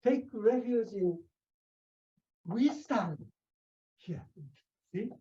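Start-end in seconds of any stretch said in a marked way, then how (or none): 0.0-3.2 raised pitch, lightly voiced Buddha; a hint of a solemn Buddha speaking; quoting the Buddha. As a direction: lift the voice to give the Buddha's command. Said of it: "Shakyamuni say".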